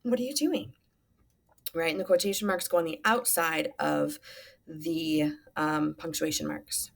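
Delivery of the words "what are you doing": understated yelled question, only pitch raised; mild mock yell. Teacher quotes the father's question, a half-hearted yell. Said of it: "he's yelling".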